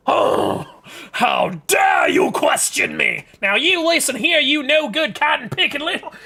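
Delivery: loud, high Southern scolding; outraged Southern mother. Acted. Southern mother outraged that her daughter questioned her, hammed-up shout. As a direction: shout it as an indignant Southern mama. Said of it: "I'm making them Southern. They just are".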